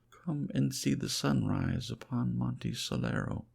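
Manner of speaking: high, bright call to come look; eager cry. Acted. Woman at the balcony calling him to the sunrise, high and eager. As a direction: lift the voice to share the wonder. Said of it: "she cried".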